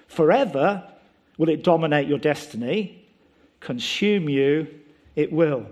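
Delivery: lightly voiced Yoda, slowing on consume; mild Yoda delivery, words rearranged; Yoda word order. Preacher showing how Yoda would say it. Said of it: "He loves rearranging the words".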